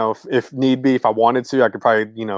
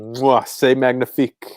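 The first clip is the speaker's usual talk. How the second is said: slow, mock French chef kiss; slower than usual. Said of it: "Do it again, do it again".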